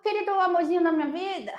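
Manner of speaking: high, quick gushing schoolteacher voice; Tia Juju. Retold or imitated. Teacher to her darling pupil, imitated high and sugary. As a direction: imitate a doting teacher, pitched well up. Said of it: "tia Juju falava assim".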